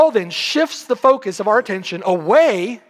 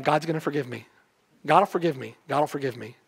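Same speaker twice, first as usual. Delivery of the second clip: mocking their claim; 4 semitones lower, 6 dB quieter, faster than usual. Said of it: "and they claim".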